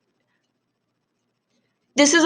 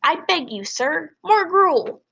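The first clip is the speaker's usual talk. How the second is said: begging like Oliver Twist; 7 semitones higher, slower than usual. Retold or imitated. Freak begging Max for more food, hammed-up pleading. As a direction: beg for more gruel, pitch climbing. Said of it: "And he always goes".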